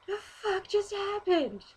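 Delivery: high, slow bewildered voice; baffled. Retold or imitated. After the guy walked away, baffled. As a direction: ask in total confusion. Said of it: "And I'm like".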